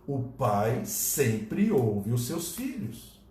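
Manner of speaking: tender, drawn-out assurance; solemn, slow. Acted. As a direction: let each word land gently.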